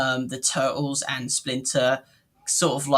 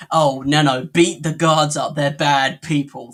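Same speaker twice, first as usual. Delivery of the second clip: louder, imitated villain's order; mock calling out; 5 dB louder than usual. Quoting what witnesses heard him say, mock calling out. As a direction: call out the order as a mock quote.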